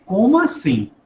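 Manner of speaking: taken aback, how dare he; mock indignation. Father reacting to young son's offer, mock indignation.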